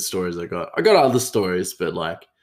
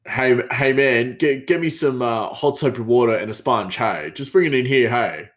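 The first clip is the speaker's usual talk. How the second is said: lightly voiced chef, a "hey" on every phrase; imitating the hey guy; 2 semitones higher than usual. Mimicking the chef telling someone off, hey after every line. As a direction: mimic a coworker who tacks "hey" onto every sentence. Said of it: "the hey guy, he's like".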